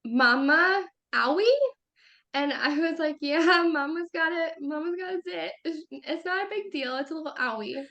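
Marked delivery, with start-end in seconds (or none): 0.1-1.6 imitating a toddler's rising question; higher, questioning little-kid voice; lightly voiced toddler. Toddler asking mom about her owie, lightly voiced toddler. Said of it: "Andrew comes up to me and goes". 3.2-7.8 reassuring mom. Retold or imitated. Mom explains her zit to toddler, reassuring mom.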